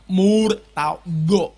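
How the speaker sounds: "Murtado" very slow, mouth pushed forward; Arabic pronunciation. Shown as a demonstration. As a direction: stretch out "Murtado" in exaggerated Arabic style. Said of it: "Kayak gini".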